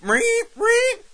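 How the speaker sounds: high squeaky siren noise; alarm siren imitation. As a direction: beep like a cheap alarm.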